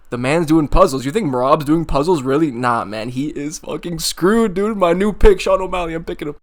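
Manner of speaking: sarcastic mock panic. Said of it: "I can't even keep up the sarcasm".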